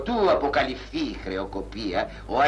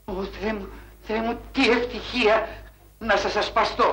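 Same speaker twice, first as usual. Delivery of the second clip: overwhelmed excitement; 9 semitones higher than usual. Acted. Cashier overwhelmed meeting banker's daughter.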